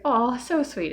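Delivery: chirpy thank-you; sweet high reply. Retold or imitated. Retold reply to kind sister.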